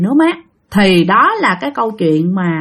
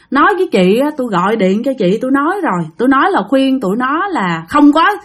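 retold tearful outburst; 2 semitones higher than usual. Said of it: "nói mà vừa khóc nha".

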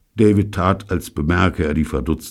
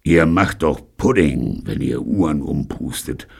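angry snort; 3 dB louder than usual. Acted. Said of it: "schnaubte zwei Kanonen Steve böse".

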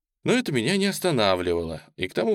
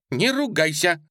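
high, louder scolding cry; exclaimed; 8 semitones higher, 4 dB louder than usual. A narrator's reading. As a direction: cry out the rebuke. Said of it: "воскликнула".

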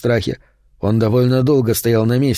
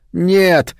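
horrified shout; scream; 7 semitones higher than usual. A narrator's reading. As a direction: scream it in terror. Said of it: "завопил Рико".

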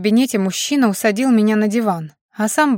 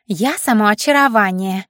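pixie. Acted. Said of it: "улыбнулась Навка".

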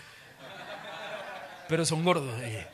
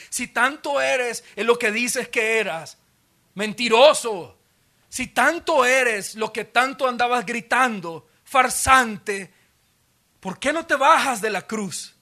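higher, slow sneering taunt; mocking taunt; 3 semitones higher, 3 dB louder, slower than usual. Mockers jeering at Jesus to come down, taunting. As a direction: jab each insult home.

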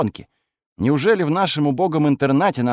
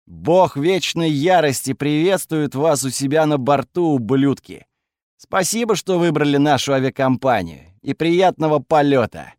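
cocky announcer parody; 3 semitones higher, 3 dB louder than usual. Acted. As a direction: greet them like a smug pilot. Hero's cocky airline-style greeting.

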